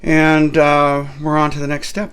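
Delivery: loud booming Viking. Acted. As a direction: bellow the step like a Viking. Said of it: "So I'm going to go with this one".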